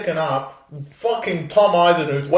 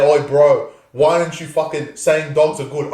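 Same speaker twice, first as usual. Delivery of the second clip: mock fan voice. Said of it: "all you cunts that are gonna come on here and say".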